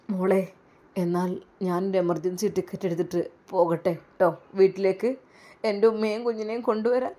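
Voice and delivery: husband arranging an emergency ticket; calm husband. Acted. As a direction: plan the trip steadily. Usthad/father voiced lower.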